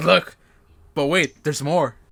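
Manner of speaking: loud, passive-aggressive gloating, laid on thick. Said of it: "like, all passive aggressively".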